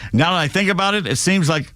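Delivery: put-on faint, abandoned Australian accent; attempted Australian accent. Host quoting tennis player Gadecki, tentative Australian accent. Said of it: "I can't do an Australian accent".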